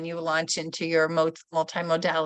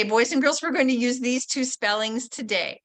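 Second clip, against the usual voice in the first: teacher voice; 3 semitones higher than usual. Shown as a demonstration. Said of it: "You might say".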